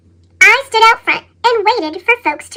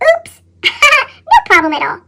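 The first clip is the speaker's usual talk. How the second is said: cheerful laugh; 5 semitones higher than usual. Acted. Sweet grape brushing off annoyance.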